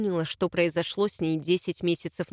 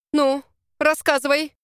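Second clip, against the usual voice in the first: higher, louder stern demand; 6 semitones higher, 5 dB louder than usual. Acted. Big sister demands an explanation, stern and louder. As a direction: insist she tell everything now. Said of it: "потребовала".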